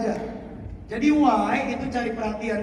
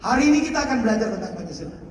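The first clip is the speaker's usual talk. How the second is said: quick instruction; 4 semitones lower, faster than usual. Shown as a demonstration. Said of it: "adalah why".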